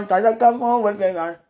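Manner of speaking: very high, loud hammed-up call; playful mimicry, pushed high and loud; mimicking sweetie. Woman imitates sweetie coming to get her, high loud mock call. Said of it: "I can't mimic you".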